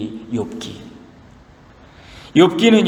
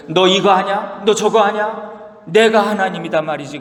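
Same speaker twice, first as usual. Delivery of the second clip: God pressing Job; 4 semitones higher than usual. Retold or imitated. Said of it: "다그치세요".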